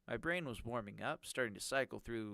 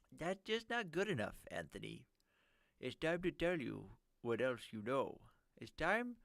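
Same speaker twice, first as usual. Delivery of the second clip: serious nerdy voice; 4 semitones higher than usual. Acted. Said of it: "So, nerdy voice".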